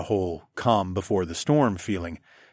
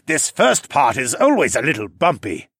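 shouting over waterfall; 4 semitones higher, 5 dB louder than usual. A narrator's reading. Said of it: "hollered over the roar".

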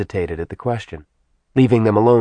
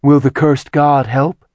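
louder, rougher demon woman; gruff demon voice; 5 semitones higher, 5 dB louder than usual. A narrator's reading. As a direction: defend herself with a growl. Zarina character voice.

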